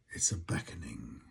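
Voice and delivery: low whispered hush; quiet, low whisper. Acted. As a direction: let it fall to a whisper. Hushed closing remark.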